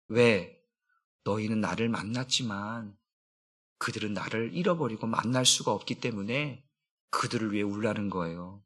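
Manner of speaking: low, soft and far-off; hushed voice of Jesus. Acted. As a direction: speak it low and tender, as Jesus consoling. Jesus voiced speaking to women.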